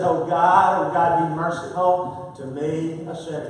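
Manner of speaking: slow, fading plea for mercy; a penitent tax collector, slow and trailing off; humble sinner's prayer. Retold or imitated. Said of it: "And he said".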